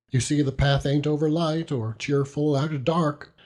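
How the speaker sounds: put-on high, fond voice of a rough old seaman; proud, tender old fisherman. Peggotty explains the light to Davy.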